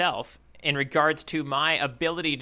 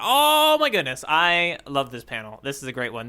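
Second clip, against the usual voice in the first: gushing fan; 3 dB louder than usual. Retold or imitated. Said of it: "Anyone's like".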